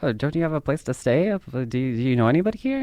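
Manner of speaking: mildly hammed-up bewilderment; confused. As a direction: play a confused man checking on a stranger. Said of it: "he's confused".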